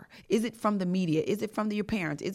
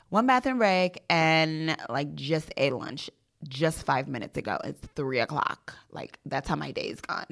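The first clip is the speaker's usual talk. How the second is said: mock-suffering millennial Valley Girl; 2 semitones lower than usual. Pretending something is wrong to flex, Valley Girl. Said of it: "I would pretend like something was, like, really wrong".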